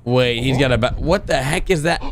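ordinary talk, nothing marked

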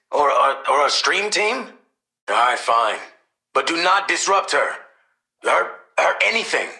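loud, stumbling disbelief; exasperated. Acted. Parent reacting to news of daughter's activities, exasperated. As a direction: sputter questions, then give in loudly.

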